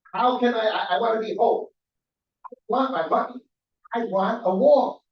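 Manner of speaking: pleading through real upset, trying not to cry; holding back tears. Real, not acted. Resident pleading with city council, voice strained near tears. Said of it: "I'm trying not to cry".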